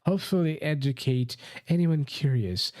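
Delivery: put-on posh British accent. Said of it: "posh British".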